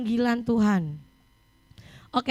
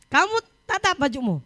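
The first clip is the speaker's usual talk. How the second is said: raised-pitch parental command; stern order; 3 semitones higher than usual. Retold or imitated. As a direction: order the child firmly, acted out. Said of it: "Saya keras". (menirukan perintah tegas orang tua)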